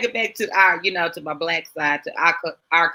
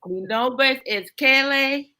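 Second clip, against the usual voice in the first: slow, careful Spanish phrases; slow showy Spanish greeting; 5 semitones higher, slower than usual. Pretend. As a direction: show off new Spanish, slow and proud. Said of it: "I got something a little special for y'all".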